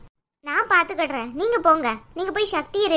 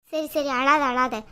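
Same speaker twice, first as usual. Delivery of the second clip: mother soothing tearful daughter; 3 semitones lower, slower than usual. Acted.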